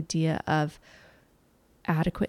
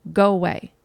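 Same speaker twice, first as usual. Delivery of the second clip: put-on child's rejection; 6 dB louder than usual. Quoting children pushing others away.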